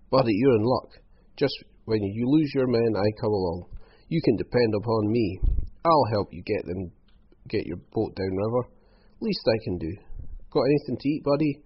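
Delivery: a hint of a pushy hanger-on; lightly voiced wheedling rogue, eager. Croc offering Hal help with the boat, ingratiating.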